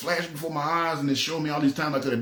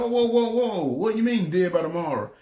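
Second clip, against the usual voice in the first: startled when God warns of death tomorrow; alarmed; 4 semitones higher than usual. Retold or imitated. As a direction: jump up in alarm at the warning.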